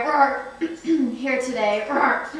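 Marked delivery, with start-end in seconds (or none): 0.0-1.1 dinosaur rawr. Acted. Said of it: "it's a rawr condition". 1.9-2.3 dinosaur rawr. Acted. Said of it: "it's a rawr condition".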